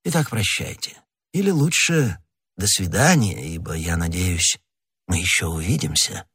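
a great lord lightly flattering his inferior; учтивый кардинал. Acted. Figure of the cardinal. (сдержанно-любезный голос вельможи)

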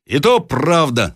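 mild shout as the mob agrees; crowd shouting. A narrator's reading. Other peasants backing the axe blow, shouting mildly. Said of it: "закричали другие мужики".

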